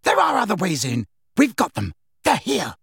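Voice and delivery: rally the hunters through a door; urgent call. A narrator's reading. Pursuer alerts fellow attackers, urgently calling out.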